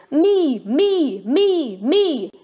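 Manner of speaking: high, eager me me me; eager shouting. A narrator's reading. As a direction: bounce to be picked first. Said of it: "Froggy shouted".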